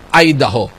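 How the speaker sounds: "Idaho" said as EYE-da-ho; American pronunciation. Shown as a demonstration. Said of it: "this is pronounced as".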